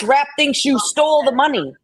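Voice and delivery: indignant rant at an accuser; heated arguing. Real, not acted. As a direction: fire back at her in rising anger. Arguing with Southern Girl in chat.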